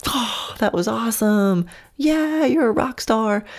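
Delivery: bright high praise for a horse. Shown as a demonstration. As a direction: cheer the horse on, game over. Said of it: "the tone of voice that I use".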